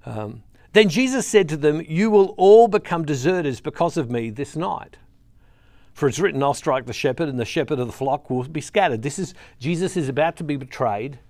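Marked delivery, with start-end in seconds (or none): 0.7-9.0 emphatic reading from the pulpit; scripture reading. Acted. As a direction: read the verse out with weight. Reads scripture aloud.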